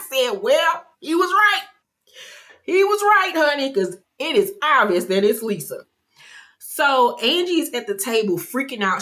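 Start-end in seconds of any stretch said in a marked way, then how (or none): 0.4-5.8 squealed high, teasing; mock-sweet high voice delivering the jab; high mock reply. Recapping the show, she voices her own high, teasing reply.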